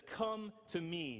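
"Come to me" drawn out slowly and gently; slow invitation. Shown as a demonstration. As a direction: stretch "Come to me" as a gentle call. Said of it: "Jesus says this".

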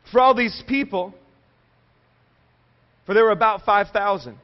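measured public Bible reading; Scripture reading. Acted. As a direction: read the passage out to a congregation, phrase by phrase. Reads Scripture aloud.

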